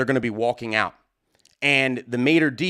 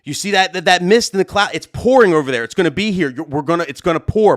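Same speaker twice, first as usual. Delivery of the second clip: urgent warning; 3 semitones higher, 5 dB louder than usual. Retold or imitated. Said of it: "And I said".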